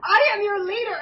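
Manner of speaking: high, loud proclamation; hammed-up would-be leader; self-important Starscream. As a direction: declare command over everyone. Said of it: "he keeps trying to go".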